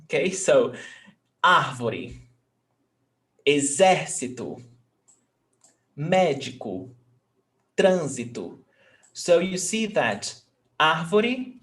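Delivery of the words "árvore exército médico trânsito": strong MÉ in "médico" and TRÂN in "trânsito", endings falling away; antepenultimate stress. Shown as a demonstration. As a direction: stress third from the end in "árvore, exército, médico, trânsito". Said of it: "the antepenultimate syllable is stressed".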